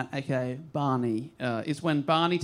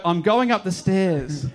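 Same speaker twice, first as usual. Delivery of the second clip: mock stage actor; 5 dB louder, slower than usual. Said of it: "what they do is they just go".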